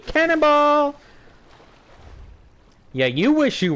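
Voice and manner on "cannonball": loud high cannonball shout; cannonball yell. Real, not acted. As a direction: yell it as you jump. Jumping into water.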